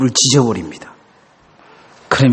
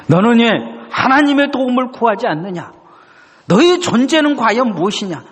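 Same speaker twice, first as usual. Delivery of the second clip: high, rising urgency; God's searching question; 8 semitones higher than usual. Retold or imitated. God questioning the grumbler's purpose, high and urgent. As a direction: climb with each question. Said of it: "이것을 묻고 계신 것입니다".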